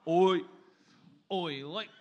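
repeated broad Australian run-up; Australian accent warm-up. Shown as a demonstration. Comic insisting he nails it, practising the Australian accent. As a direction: rehearse the Australian vowels in fragments. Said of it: "I am nailing the accent".

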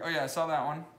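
ordinary talk, nothing marked

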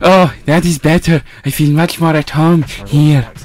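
mild Eastern European Igor voice. Acted. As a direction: creep it like Igor. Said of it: "Accent change to Igor".

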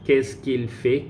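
qu'est-ce qu'il fait said slowly and clearly; slow down for learners; slow model. Shown as a demonstration. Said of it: "teacher repeats slowly".

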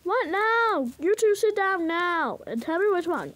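mock fed-up parent; exasperated parent. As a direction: order squabbling children to sit, play-acted. Acted parent breaking up fight.

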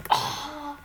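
stunned by what just happened in the game; surprised. Real, not acted.

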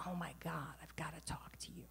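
urgent hushed whisper; anxious whisper so Dad won't hear. Retold or imitated. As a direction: keep it secret, whisper on the phone. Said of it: "Why are you whispering?".

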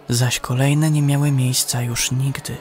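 plain reading voice

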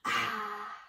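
long open gasp after a strong drink; breathy "ah" from fiery liquor. Acted. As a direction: gasp out a drawn sigh. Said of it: "gasped the small fox".

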